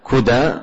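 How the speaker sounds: "كدى" as kudā, short u in the first syllable; damma on the kaf. Shown as a demonstration. Teacher repeating the place name for students, damma on the kaf. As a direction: say "كدى" KU-dā on the pattern of qurā. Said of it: "بضم الكاف".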